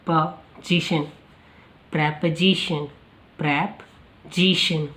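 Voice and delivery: प्रेपोजिशन with "pre", not "pree"; प्रेपोजिशन as "preh-po-zi-shun"; pronunciation demo. Shown as a demonstration. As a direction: build up प्रेपोजिशन from पोजीशन, the last take slow. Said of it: "प्रे sound देता है".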